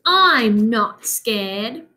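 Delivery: drawn out, slow and stubborn; a little mummy insisting he's brave, slowly; slow brave insistence. Acted. Child reader hears baby mummy slowly insist he's brave.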